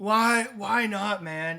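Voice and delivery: put-on loud, very slow, sloshed drunken drawl. Voicing a character who is more drunk than the others: drunk character. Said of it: "he's more drunk than I am".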